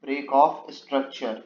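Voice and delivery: each word of "break of structure" drawn out very slowly while typing; dictating "break of structure" at a crawl; slow dictation. Shown as a demonstration. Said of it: "इसको हम लोग लिखेंगे".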